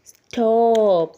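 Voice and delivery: loud, slow, commanding stop; loud police command. Acted. Teacher playing the police officer shouting at traffic. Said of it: "ഉറക്കെ പറഞ്ഞു അല്ലേ?".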